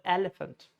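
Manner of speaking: elephant as EL-uh-funt; stress on first syllable. Shown as a demonstration. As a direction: lean on EL, let elephant's later vowels go weak. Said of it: "Stress on the first syllable".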